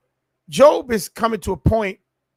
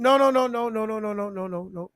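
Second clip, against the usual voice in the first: fading no; faster than usual. Acted. Preacher rejecting, fading out.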